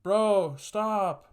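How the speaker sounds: high, loud yell to cut it off; startled shout. Retold or imitated. Boyfriend catching them through the window, shouting. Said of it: "And I hear this guy go".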